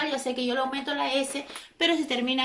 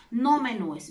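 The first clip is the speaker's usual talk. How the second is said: menúes said with a slight push as the wrong form; wrong form stressed; slower than usual. Shown as a demonstration. Teacher flags menúes as the wrong plural. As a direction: mark menúes as the error. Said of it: "la palabra correcta expresada sería menús".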